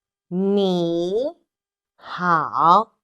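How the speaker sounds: "你好" slow, "好" dipping low; "你" then a low U-turn "好"; model 你好. Shown as a demonstration. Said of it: "greet people using".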